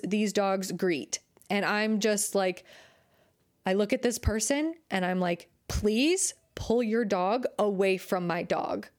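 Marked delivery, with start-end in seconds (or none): 5.7-8.9 calm, level, firm request. Shown as a demonstration. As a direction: say it evenly but firmly. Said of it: "I said it like that".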